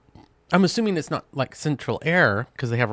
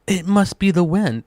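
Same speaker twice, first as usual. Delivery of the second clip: loud, high mocking impression; hammed-up clueless guess; mock dumb voice; 5 semitones higher, 5 dB louder than usual. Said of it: "and then you go".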